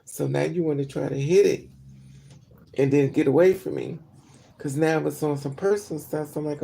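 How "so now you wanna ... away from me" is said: suspicious inner voice. Retold or imitated. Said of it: "first thing you thinking".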